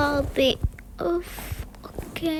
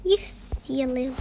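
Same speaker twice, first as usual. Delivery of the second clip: sneaky whisper; 2 semitones lower, 7 dB quieter than usual. Real, not acted. Girl sneaking to mum's room, whispered. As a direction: keep it under your breath.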